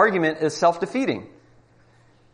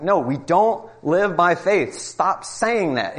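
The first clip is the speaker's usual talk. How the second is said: mildly heated, slow insistence; retold angry protest; 4 semitones higher, slower than usual. Atheist in a debate snapping back, mild mock anger. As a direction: push back, half-playing the annoyed atheist. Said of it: "he's getting angry".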